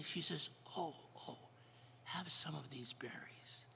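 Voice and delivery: gentle story narration, often hushed; storytelling. Acted. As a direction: tell the legend to the congregation. Tells Native American creation story.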